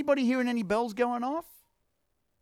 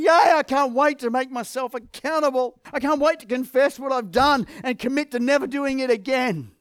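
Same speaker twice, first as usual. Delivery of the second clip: mock-cheerful, louder, playing the reluctant crowd; sarcastic cheering from a reluctant congregation; sarcastic yay; 5 semitones higher, 3 dB louder than usual. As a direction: fake enthusiasm dripping with irony. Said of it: "I can hear the yays coming out".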